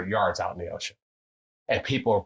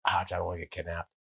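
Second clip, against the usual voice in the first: softer, fast nervous whimper; mock whiny partner; 5 semitones lower, 6 dB quieter, faster than usual. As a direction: mimic a scaredy-cat friend. Mocking whiny business partner.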